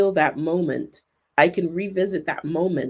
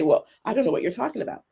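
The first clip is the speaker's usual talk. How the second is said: dismissive quote; 3 semitones higher, much faster than usual. Retold or imitated. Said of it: "the person's gonna say".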